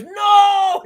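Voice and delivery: loud, high "No!"; mock shout. Cliff caught on camera taking a bribe, shouting. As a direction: yell it like you're caught red-handed.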